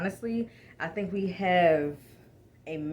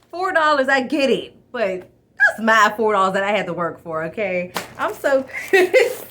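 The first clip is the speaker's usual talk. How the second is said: louder, higher, worked-up protest; louder indignant rant ending in a laugh; real indignant rant; 5 semitones higher, 10 dB louder than usual. Real, not acted. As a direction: rant about your hard-earned money.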